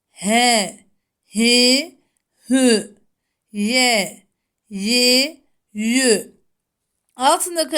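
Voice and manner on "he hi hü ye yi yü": each syllable crisp and separated; letter drill. Shown as a demonstration. Teacher drills letter sounds for pupils. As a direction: model the syllables for students. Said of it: "harflerin harekelerle okunuşu".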